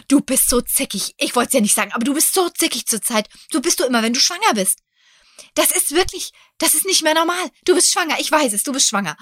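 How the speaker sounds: mock exasperated husband, climbing in pitch; insistent husband. Husband tells moody wife she's pregnant, insistent and rising.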